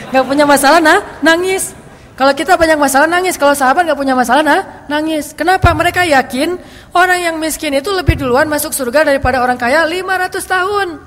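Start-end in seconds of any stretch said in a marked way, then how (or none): 0.1-8.5 excited preaching. Real, not acted. Excited point about weeping companions.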